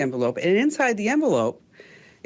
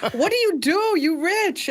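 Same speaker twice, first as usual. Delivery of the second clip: much higher Vietnamese-accented imitation; 12 semitones higher than usual. Dry cleaner questions the customer's wealth, in a high Vietnamese accent. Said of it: "She said".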